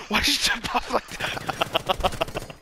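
laughing question. Real, not acted. Laughing while asking teammate.

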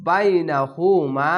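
"বাইনাহুমা" chanted slowly, long মা; drawn-out recitation of "বাইনাহুমা", ending lengthened; stretch and stop. Shown as a demonstration. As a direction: hold final মা, then halt. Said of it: "এক আলিফ টেনে থেমে যাবেন".

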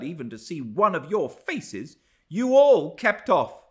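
high, emphatic, haughty tirade; indignant scorn. A narrator's reading. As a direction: reject them all with open contempt. Frowning, scornful rejection of the household.

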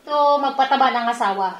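slurping noodles mid-speech; talking while chewing; mouth full of noodles. Real, not acted. Seen 2: Woman holds noodles at her mouth and slurps them while speaking.

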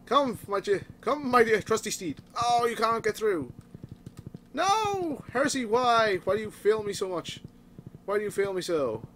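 lightly hammed-up noble rider; mock knight. Gamer addressing horse Heresy as mock knight. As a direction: play a grand knight pleading with his steed.

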